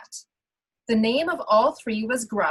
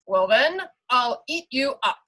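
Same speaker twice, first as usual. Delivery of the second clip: troll threat; 3 semitones higher, 5 dB louder than usual. Acted. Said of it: "the troll replied".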